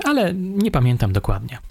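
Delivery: suspect voice. A narrator's reading. Suspect answers.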